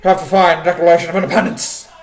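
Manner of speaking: a half-hearted Nic Cage line; a hint of Nicolas Cage, barely changed; bad Nicolas Cage impression. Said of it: "that's a bad Nicolas Cage impression".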